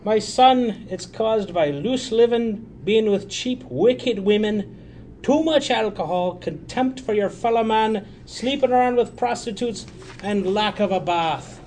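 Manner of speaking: high, loud, drawn-out sermonizing priest; preachy priest. Acted. Priest lecturing the drunk on the subway, preachy priest. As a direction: scold slowly from on high.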